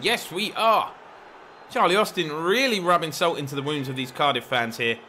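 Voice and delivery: excited live football call on the goals; play-by-play commentary. Acted. Gamer calling his striker's goals, excited play-by-play. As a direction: build up and celebrate like a TV commentator.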